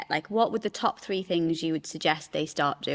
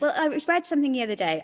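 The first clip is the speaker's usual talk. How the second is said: pitched way up, a self-important "read"; mock intelligent; 8 semitones higher, faster than usual. Shown as a demonstration. Sharing a reel with a friend, playing it mock intellectual. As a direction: say "read" as if showing off your learning. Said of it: "I sound really intelligent if I say I read something".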